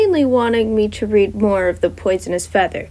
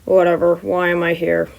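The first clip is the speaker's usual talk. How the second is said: slightly lower, dry tone; a hint of a tired teacher; lightly lower Aizawa; 3 semitones lower than usual. Aizawa to Nezu, lightly lowered dry voice.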